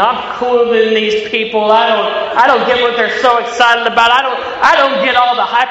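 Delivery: mildly cocky younger self; arrogant. Retold or imitated. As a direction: act out a dismissive, too-cool teenager. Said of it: "I was just so arrogant".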